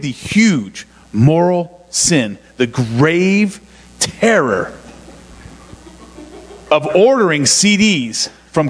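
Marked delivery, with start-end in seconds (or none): 0.0-4.7 slow, grave mock confession; mock solemn. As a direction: drag it out like a terrible sin. Mock-solemn confession of buying CDs.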